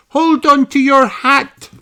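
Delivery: Peppa warning. A narrator's reading. Peppa warns George about his hat, high urgent call. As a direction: call out a warning on a windy day. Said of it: "says Peppa".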